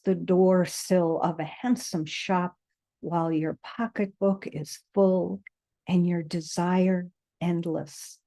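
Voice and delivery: measured poetry reading with deliberate pauses; poem recitation. A narrator's reading. Reading a poem to listeners settled with eyes closed, measured recitation. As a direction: recite it, letting each image land.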